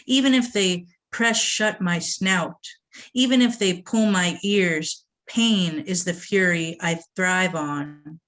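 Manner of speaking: measured, deliberate poem delivery; spoken-word recital; poetry reading. Acted. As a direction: read it like a performed poem, weighing each line. Poem read aloud.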